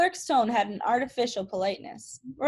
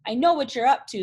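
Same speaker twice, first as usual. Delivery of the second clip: louder, menacing growl of a threat; snarled; 3 semitones higher, 5 dB louder, faster than usual. Acted. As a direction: snarl it at the kid. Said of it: "the bald man snarled".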